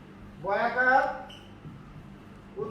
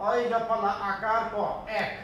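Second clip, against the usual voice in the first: slow spelled-out demo; slower than usual. Shown as a demonstration. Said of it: "একের উচ্চারণ হবে".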